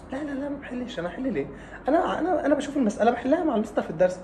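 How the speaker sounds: sheepish laugh while confessing; laughing student. Retold or imitated. Student laughing as he admits he never solves problems. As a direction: giggle through the admission.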